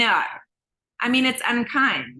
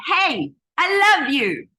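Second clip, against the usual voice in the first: loud, drawn-out cheer to oneself; self-affirming; 4 semitones higher, 5 dB louder, slower than usual. Acted. Speaker greets herself in the mirror, self-affirming. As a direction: greet yourself with slow, emphatic love.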